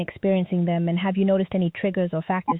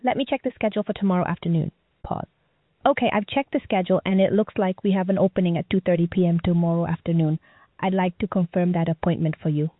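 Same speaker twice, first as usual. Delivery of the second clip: bright, scripted virtual assistant; chirpy over clear scripted. Acted. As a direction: read it like a cheerful help bot.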